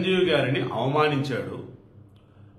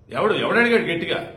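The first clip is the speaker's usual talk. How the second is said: raised, louder replay of ఎవడు; mock loud retort; 3 semitones higher, 5 dB louder than usual. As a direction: imitate the heated question with force. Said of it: "ఇలా, ఇలా అన్నాడు".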